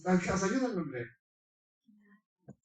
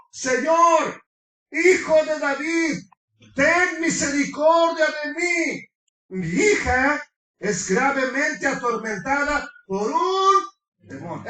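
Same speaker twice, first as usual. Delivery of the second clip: crying out for mercy; 4 semitones higher than usual. Acted. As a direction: wail it like a desperate mother begging. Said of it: "Gritaba diciendo".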